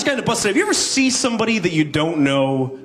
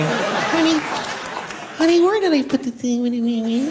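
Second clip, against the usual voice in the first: much higher whiny plea; annoying needy voice; 11 semitones higher than usual. Retold or imitated. Partner asking honey after three months, high whine. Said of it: "annoying greedy thing".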